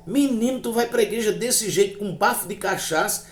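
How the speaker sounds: high-pitched, incredulous reproach; scolding wife. Retold or imitated. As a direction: imitate a wife telling off her husband. Wife scolds drunk husband.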